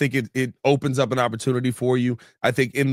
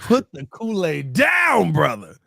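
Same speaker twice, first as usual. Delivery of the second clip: mock scolding; 3 semitones higher, slower than usual. Real, not acted. Host to over-hyped co-host about Kool-Aid, mock scolding. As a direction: tell off a friend in exaggerated disbelief.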